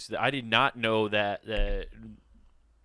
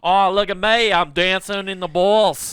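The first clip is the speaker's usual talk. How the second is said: high, loud hammed-up British preening; sarcastically ape a showy Brit; mocking British accent; 6 semitones higher, 5 dB louder than usual. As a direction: sing out a silly British-accent taunt. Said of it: "sarcastically make fun of the Brits".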